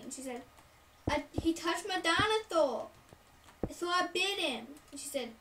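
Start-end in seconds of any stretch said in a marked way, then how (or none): 1.1-4.7 higher, slower kindergartner; a hint of babyish pronunciation; little kid. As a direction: explain it like a small child to mom. Voicing child explaining to mother.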